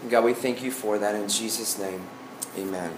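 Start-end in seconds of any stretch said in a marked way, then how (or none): 0.0-1.3 prayer. Acted. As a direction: pray it sincerely and gently. Leads a prayer.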